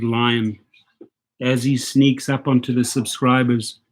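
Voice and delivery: mock nature documentary. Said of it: "I'll do the African lion impression".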